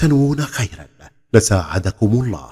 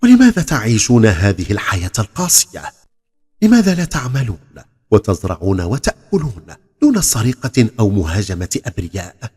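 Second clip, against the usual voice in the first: firm, brave questioning; bold and steady; 4 dB louder than usual. Acted. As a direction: ask boldly, without flinching. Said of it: "بجرأة وثبات".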